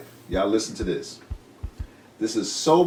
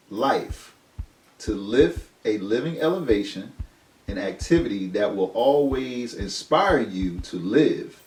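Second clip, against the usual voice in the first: slow, deliberate reading voice; weighty definition read; solemn reading; 3 semitones higher, much slower than usual. Acted. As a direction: read it like scripture, slowly. Rereads definition.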